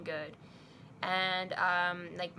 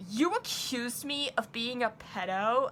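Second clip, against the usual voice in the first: higher, slow, mock-indignant question; mad, offended; 4 semitones higher, slower than usual. Friend reacting to being accused, retold indignation. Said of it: "gets so mad at me".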